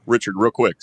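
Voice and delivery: a loud mock-announcer introduction. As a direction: project it like an announcer. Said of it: "gonna get my announcer voice".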